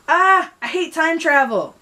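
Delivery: high, loud, drawn-out wail of dismay; scream. Acted. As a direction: cry it out as if falling through time. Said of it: "He screamed".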